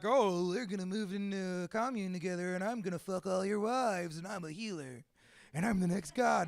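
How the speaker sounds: lightly mocked cult-leader healer; weird self-styled guru. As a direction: imitate a pompous would-be healer. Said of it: "those fucking weird dudes that are like".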